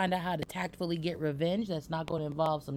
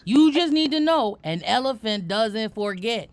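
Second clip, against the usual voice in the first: loud playful menace; mock vengeful vow; 5 semitones higher, 7 dB louder than usual. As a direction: vow revenge like a grudge-holding elephant.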